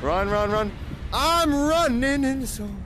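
frantic panicked running chant; being chased. Real, not acted. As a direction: gasp out run in a panic. Fleeing a monster in game.

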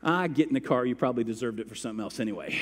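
quick offhand brush-off; dismissive mom. Retold or imitated. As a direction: wave it away, fast. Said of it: "She goes".

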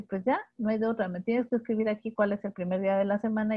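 quick, lightly voiced software talking back; a hint of a blunt machine voice; voicing the software. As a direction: play the program, brisk and matter-of-fact. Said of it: "Entonces ya me dice".

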